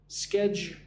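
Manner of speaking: spaced-out teaching take of schedule, one syllable at a time; syllable-by-syllable pronunciation. Shown as a demonstration. Teacher helping a learner who finds it hard, syllable-by-syllable schedule. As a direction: say schedule broken into "sked", "you", "ul". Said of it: "Schedule is difficult to pronounce".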